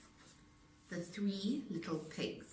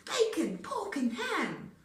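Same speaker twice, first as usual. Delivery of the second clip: wolf shouting; 8 semitones higher, 5 dB louder than usual. A narrator's reading. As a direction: relish every word, greedy wolf. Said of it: "He shouted".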